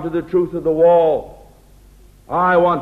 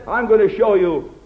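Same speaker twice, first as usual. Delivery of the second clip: boastful take-charge. Pretend. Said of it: "a man of God doesn't talk like that".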